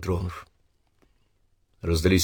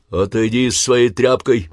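growl; 4 semitones higher, 3 dB louder than usual. Acted. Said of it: "рыкнул на него Павел".

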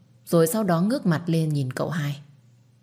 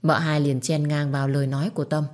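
ordinary delivery

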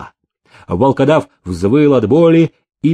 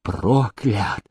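frenzied curse; 2 semitones higher, 3 dB quieter, much slower than usual. A narrator's reading. Beggar cursing the master while torn by a wolfhound, frenzied. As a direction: curse him slowly from the depths. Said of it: "кричал иступлённо".

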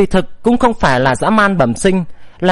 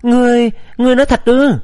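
higher, quick stammer of disbelief; hesitant, incredulous question; 5 semitones higher, faster than usual. A narrator's reading. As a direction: trip over the first word, asking again. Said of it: "lắp bắp hỏi lại".

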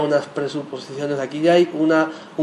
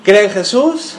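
mock preaching; 2 semitones higher, 4 dB louder than usual. Mocking rushed evangelism.

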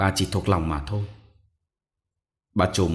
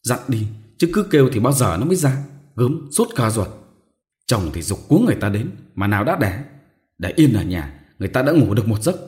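higher, louder scolding; 3 semitones higher, 3 dB louder than usual. Acted. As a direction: tell her off impatiently. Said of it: "bà đỡ lại mắng". (mắng mỏ, giọng cao và to)

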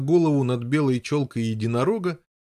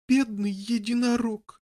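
grieving; 10 semitones higher than usual. Acted. Meg mourns dead unicorn.

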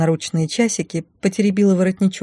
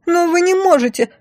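high, loud shriek; 12 semitones higher, 4 dB louder than usual. Acted. Blonde shrieks at the heroine over the dress, shrill squeal. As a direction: squeal it in outrage. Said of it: "взвизгнула силиконовая барышня".

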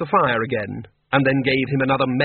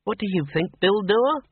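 Miss Flitworth, higher and pointed; sharp question; 8 semitones higher than usual. A narrator's reading. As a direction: pin him down with the question. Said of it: "she said sharply".

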